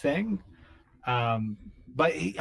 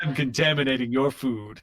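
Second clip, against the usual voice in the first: peppy cockroach. Acted. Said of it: "brown cockroaches are just like".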